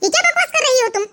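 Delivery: furious disbelief at the daughter-in-law; mother-in-law scolding her defiant daughter-in-law, outraged. Acted.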